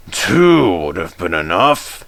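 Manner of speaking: dryly. Acted. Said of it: "said the fat controller dryly".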